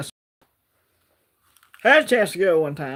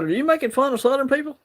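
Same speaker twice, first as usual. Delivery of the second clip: surprised challenge; 8 semitones higher, faster than usual. Retold or imitated. Retelling his challenge to Mustard and Gold.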